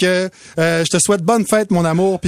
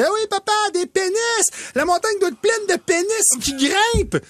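put-on excited child; 12 semitones higher than usual. Daughter explains to her dad excitedly. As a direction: announce it like a thrilled kid. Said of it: "Elle dit".

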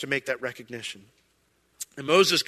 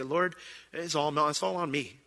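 humble confession; 7 dB quieter than usual. Pretend. Voicing humble confession to God.

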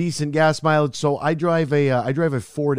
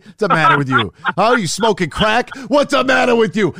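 loud, rising mock outrage; indignant outburst; 7 semitones higher, 5 dB louder than usual. Scolding an acquaintance who expected a fancier car, indignant shout. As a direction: climb from incredulous to shouting.

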